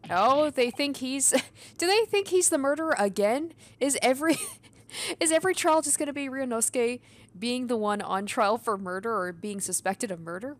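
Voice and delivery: can't believe it's happening again, loudly; real incredulity. Real, not acted. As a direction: exclaim in exasperated, half-laughing disbelief. Reacting to repeat murder accusation.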